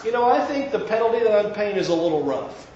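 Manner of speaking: mock-whiny grumbling about the penalty; complaining. What David doesn't say to God, mock complaint. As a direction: whine that it's too rough. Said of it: "David doesn't say".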